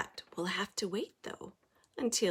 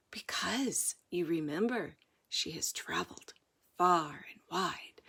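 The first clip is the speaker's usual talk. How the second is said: hushed bedtime voice, near a whisper; soft hushed aunt; 5 semitones lower, 6 dB quieter than usual. A narrator's reading. Aunt whispering to Penelope at bedtime, hushed. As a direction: murmur it like a story at bedtime.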